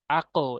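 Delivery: আকো with the echo bouncing up toward ও; আকো, echo rising; qalqala rising. Shown as a demonstration. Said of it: "এভাবে উচ্চারণ করবেন".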